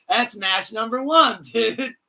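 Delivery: hyped announcer. Pretend. Hyped wrestling announcer bit.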